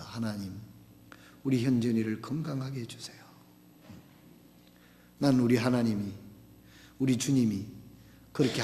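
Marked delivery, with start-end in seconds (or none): 0.0-3.2 hushed, pleading whisper to God; whispered prayer. Retold or imitated. Father praying over his sick son, whispering. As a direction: breathe the prayer out softly. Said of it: "현준이를 안고 기도했습니다".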